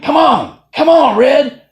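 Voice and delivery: loud, high cheering shout; full-voiced rallying cry, re-enacted; yelled self-cheer. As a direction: yell yourself on through the last mile. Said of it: "I'm yelling at myself, I'm cheering".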